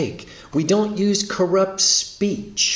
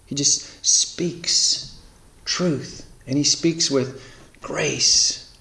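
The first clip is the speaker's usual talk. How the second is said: hushed, slow emphasis; much slower than usual. Acted. Preacher slows to hushed emphasis.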